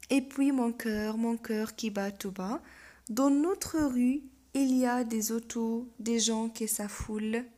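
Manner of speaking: slow, deliberate verse reading; poem recitation. Acted. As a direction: recite it slowly, phrase by phrase. Reads poem aloud.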